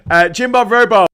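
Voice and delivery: loud, emphatic hammed-up protest; mock indignation. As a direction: declaim it with pretend wounded dignity. Hammed protest after duel challenge.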